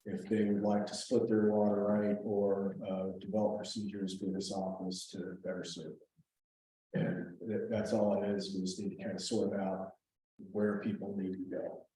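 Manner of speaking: talking while chewing gum; words round a piece of gum. Real, not acted. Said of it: "been talking with chewing gum in my mouth".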